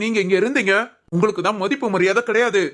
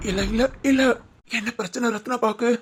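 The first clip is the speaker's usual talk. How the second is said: leise, den Tränen nah; fast weinend fragen; tearful; 3 dB quieter than usual. Acted. Schwiegervater redet plötzlich hart.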